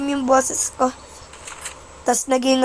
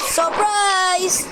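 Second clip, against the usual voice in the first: surprised shout; 4 semitones higher than usual. Real, not acted.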